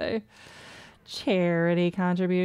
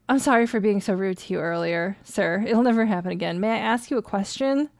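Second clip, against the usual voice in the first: sincere. Acted. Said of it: "says sincerely".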